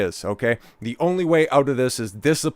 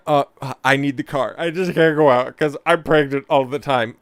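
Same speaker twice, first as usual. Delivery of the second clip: a light whiny wife impression, a bit higher; mocking the wife; 4 semitones higher than usual. Streamer mocking the pregnant wife's excuse, whiny. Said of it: "mocking wife's excuse".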